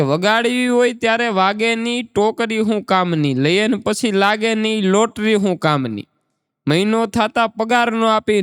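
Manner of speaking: rhythmic couplet recital; recited folk verse, a hint of rhythm; comic doha recitation. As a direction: chant each line to land on the refrain. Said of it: "હાસ્યનો દુહો છે".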